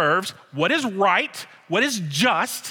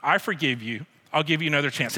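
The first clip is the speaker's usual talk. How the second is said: gentle forgiveness; 3 semitones lower than usual. Pretend. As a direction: say it tenderly to your son. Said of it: "and say".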